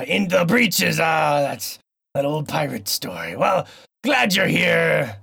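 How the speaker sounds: slow, hammed-up pirate drawl; an old sea dog welcoming a mate. Host in a pirate voice welcoming his co-host. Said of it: "this stupid voice".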